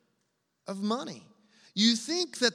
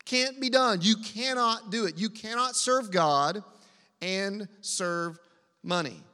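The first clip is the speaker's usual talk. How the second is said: emphatic. Real, not acted. Preacher emphatic repetition.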